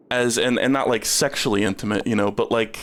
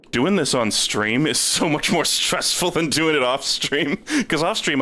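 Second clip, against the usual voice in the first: nervous laugh; 5 semitones higher than usual. Real, not acted. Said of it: "that's a nervous laugh from me too".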